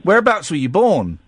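high, incredulous radio host grilling a caller. Pretend. Host teasing the caller about his accent, high and mocking. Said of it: "you're on the wireless".

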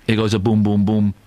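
mock storytelling. Host mimicking he-goes storytelling.

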